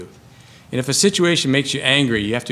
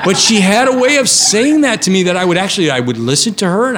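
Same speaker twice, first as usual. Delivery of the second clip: laughing through the words, louder and higher; 9 semitones higher, 7 dB louder than usual. Retold or imitated. Remembering Carol's blunt words, laughing fondly. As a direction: chuckle while telling it.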